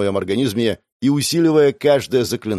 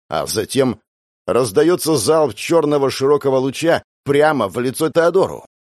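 plain reading voice

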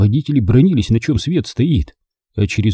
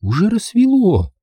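high-pitched, fretful remark; worried woman's protest; anxious objection; 11 semitones higher than usual. A narrator's reading. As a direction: fret in a raised, high voice. Maisie objects that it is daylight.

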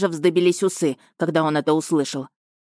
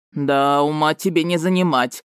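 grumbling. Acted. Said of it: "проворчал генерал".

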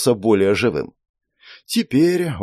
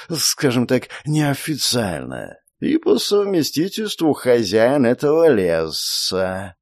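serpent spirit voice. Acted.

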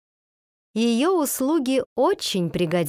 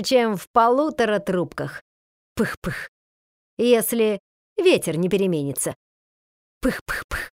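genie voice. A narrator's reading. Skipper puffing pipe between words.

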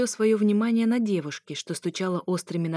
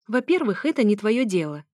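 offhand, pointed rebuff; brisk dismissal, starting higher; tossed over shoulder; 3 semitones higher, 4 dB louder than usual. Acted. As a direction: throw it back over your shoulder. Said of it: "бросила я через плечо".

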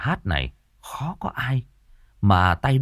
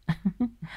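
sly giggle; 12 semitones higher, 7 dB quieter than usual. Acted.

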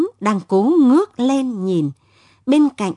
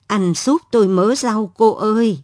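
lightly voiced frail old woman; a hint of a weak, pleading old seller. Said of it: "tiếng bà cụ lại yếu ớt vang lên".

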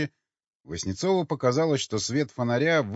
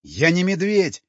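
high, loud, drawn-out wail; frantic scream; 6 semitones higher, 6 dB louder than usual. A narrator's reading. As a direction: cry out desperately, stretching the words. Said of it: "истошно завопил Васнецов". (истошный протяжный вопль)

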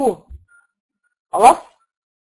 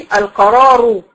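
slow recitation; 4 dB louder, much slower than usual. Shown as a demonstration. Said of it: "انا وقفت عليها بقت القرار".

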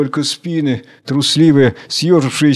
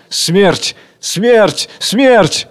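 each cry higher than the last; three cries of death, each pitched higher; rising cries of death; 6 semitones higher, much slower than usual. Acted. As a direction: climb up with every cry of death.

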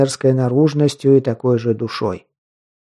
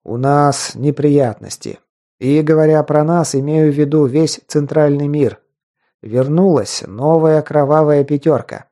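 serious tone. Acted. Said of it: "начал более серьёзным тоном".

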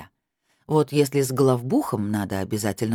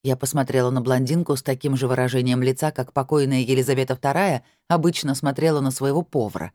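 usual speaking voice

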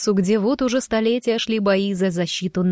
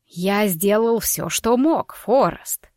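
устало; slower than usual. Acted. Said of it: "устало отозвался тот".

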